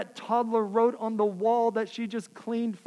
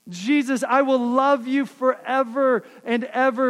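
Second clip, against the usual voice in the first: gushing prayer; 3 semitones higher, 4 dB louder than usual. Acted. Voicing a gushing half-hearted believer.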